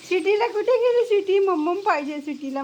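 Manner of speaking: excited pet-talk call; playful pet call. Real, not acted. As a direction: call out brightly to find the pet. Calling dog in baby talk.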